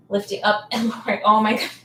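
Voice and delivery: strained, laughing through sore legs; sore muscles. Real, not acted. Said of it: "Sorry, I'm so sore".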